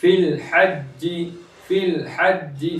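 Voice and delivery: फिल हज्जी with फि joined straight to ल; short unstretched फि. Shown as a demonstration. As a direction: keep फिल short, no long vowel before ल. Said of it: "फा को खींचेंगे नहीं".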